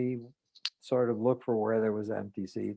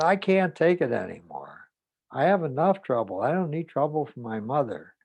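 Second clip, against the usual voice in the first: agitated; 4 dB louder than usual. Retold or imitated. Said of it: "still very agitated".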